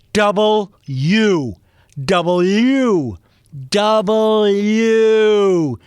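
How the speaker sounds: high, loud exasperated correction; yelling at television. Acted. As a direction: yell each "W" at the TV, drawn out. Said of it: "I'm yelling at the television or the radio".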